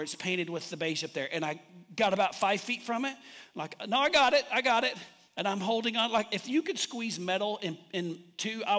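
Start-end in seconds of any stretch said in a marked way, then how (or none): 3.9-5.0 retold insistence. Retold insisting while stuck up high.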